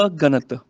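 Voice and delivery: ਅਗਣਤ as "a—ganat"; separated prefix. Shown as a demonstration. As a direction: split ਅਗਣਤ after the short a. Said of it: "ਅਗਣਤ ਪੜ੍ਹਨਾ ਵੈ". (ਅਗਣਤ ਨੂੰ "ਅ-ਗਣਤ" ਬੋਲੋ)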